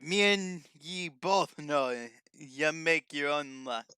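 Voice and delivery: lightly voiced cartoon pirate, slow; SpongeBob pirate voice. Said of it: "SpongeBob pirate voice".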